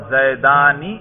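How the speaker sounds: زیدانی drawn out, ending in a clear "ni"; final kasra sounded. Shown as a demonstration. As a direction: say زیدانی with the nun carrying an i vowel. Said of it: "نون کے نیچے تو میں زیر پڑھ رہا ہوں".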